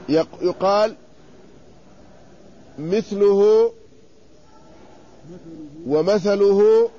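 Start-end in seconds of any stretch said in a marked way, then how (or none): 2.8-3.7 مثله said as mithluhu, first vowel i; مثله with kasra on the mim, thaa unvowelled; vowel variant of mithluhu. Shown as a demonstration. Teacher demonstrating the vowels to students: مثله as mithluhu. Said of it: "مثلث العين". 5.9-6.9 ومثله drawn out slowly as wamathaluhu; ومثله with fatha on mim and thaa, slow; vowel variant, slowed. Shown as a demonstration. Teacher demonstrating the vowels slowly: ومثله as wamathaluhu. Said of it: "مثلث العين".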